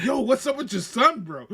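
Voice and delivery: laughing while quoting Keith. Retold or imitated. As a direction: quote it through laughter. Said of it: "Keith was like".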